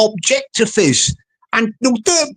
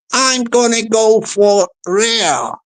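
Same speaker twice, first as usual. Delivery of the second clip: sneaky; slower than usual. Acted. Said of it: "see how sneaky he sounded there".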